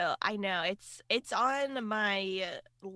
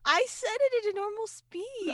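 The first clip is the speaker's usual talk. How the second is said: high-pitched, mock-indignant defence; indignant protest; 13 semitones higher, 4 dB louder than usual. Real, not acted. Host defends her speed to co-host, high indignant protest. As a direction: protest in a much higher voice.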